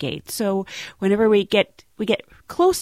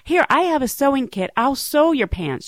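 higher, sweetly sympathetic imitation; extremely nice; 7 semitones higher than usual. Nice flight attendant offers to sew passenger's torn pants, extremely nice. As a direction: play a kindly helper, all concern. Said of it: "extremely nice".

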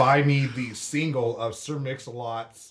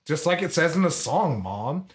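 higher-pitched protest of innocence; lightly acted kid arguing back at mom; defensive kid; 5 semitones higher than usual. Child protesting to mom, retold.

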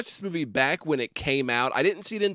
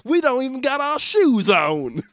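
higher, louder hammed-up hick Midwest accent; 8 semitones higher, 4 dB louder than usual. Host imagining British fans mocking them, in a hick Midwest accent. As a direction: yeehaw it like a hillbilly. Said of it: "the most hick Midwest accent".

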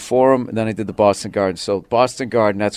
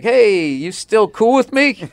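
tentative check-in; 11 semitones higher, 3 dB louder, slower than usual. Retold or imitated. Acted check-in with his spouse.

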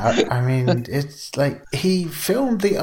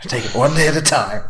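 laughing; 2 semitones higher, 3 dB louder, faster than usual. Retold or imitated. Mock counselor quote with laughter.

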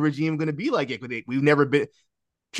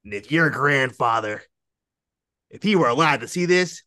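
dramatic Cody impression. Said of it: "the way he said it was so dramatic and funny".

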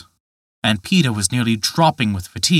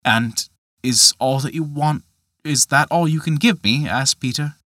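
put-on a young man bristling at a poor bargain; Peter, indignant; 3 semitones higher than usual. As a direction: demand it, stung and let down. Peter protesting.

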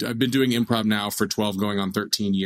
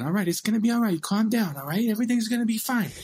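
soothing Tyson voice; 12 semitones higher, faster than usual. Retold or imitated. Tyson calms the panicked dad.

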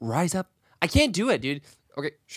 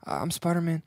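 Spider-Man voice; 5 dB quieter, faster than usual. Retold or imitated. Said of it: "in the voice of Spider-Man".

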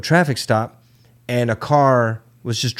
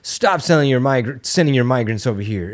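pitched-up mocking complaint at Texas; mock whining New Yorkers. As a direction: whine like a frantic city official. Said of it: "They're just like".

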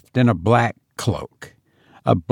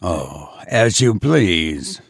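sweetly; 5 semitones lower, slower than usual. A narrator's reading. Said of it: "said he most sweetly".

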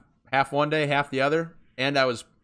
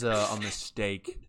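quiet; 3 semitones lower, 6 dB quieter, slower than usual. Retold or imitated. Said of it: "And you'd be like".

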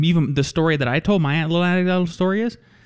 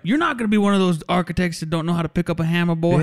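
teasing Southern builder; lightly put-on Southern contractor's lecture; 3 semitones higher than usual. Contractor schooling future architect, teasing Southern accent. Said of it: "he has a southern accent".

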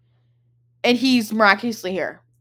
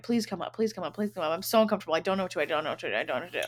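pleading; 3 semitones lower, 8 dB quieter, much faster than usual. Retold or imitated. Begging Colin by text, retold.

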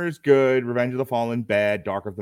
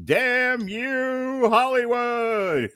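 announcer; 12 semitones higher, much slower than usual. Acted. Show title announced.

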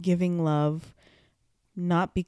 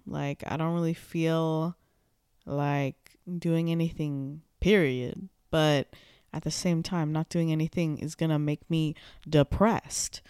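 talking around a retainer; slightly thick speech from retainers; wearing a retainer. Real, not acted. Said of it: "I have my retainers in".

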